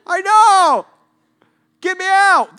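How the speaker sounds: high, loud wail; whining yell. Acted. Trapped man to rescuers, high demanding wail. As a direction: wail back up at them, hammed-up.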